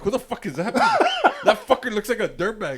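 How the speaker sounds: high, laughing mock horror; appalled disbelief. Man seeing himself in the mirror, appalled.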